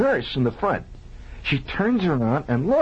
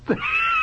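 high laugh. Real, not acted. Storyteller breaks up, high squeal.

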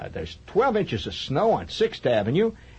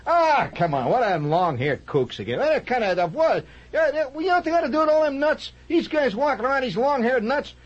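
Slav voice; 12 semitones higher than usual. Retold or imitated. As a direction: sneer like a know-it-all guy in a bar. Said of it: "here's the way he reacts to it".

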